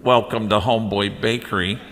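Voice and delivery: laughing mock tour guide announcement; loud, slow, amused tour-guide patter; nature documentary. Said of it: "he pretends he's the tour guide".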